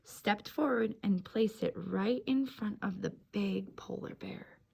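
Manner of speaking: put-on gentle read-aloud for young children; storybook reading. A narrator's reading. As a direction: read it like story time on the rug.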